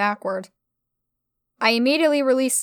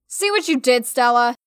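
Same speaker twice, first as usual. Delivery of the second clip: rumbling; 4 dB louder than usual. Acted. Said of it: "I rumbled".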